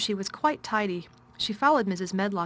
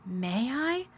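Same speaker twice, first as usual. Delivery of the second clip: tremulously; 4 semitones higher than usual. A narrator's reading. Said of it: "she said tremulously".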